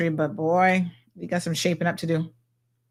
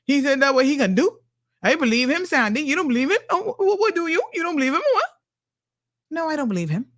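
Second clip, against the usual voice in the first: mock naive voter, climbing much higher in disbelief; gullible voter; 4 semitones higher than usual. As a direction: play a credulous supporter scolding a doubter. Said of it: "vote his behind right back in".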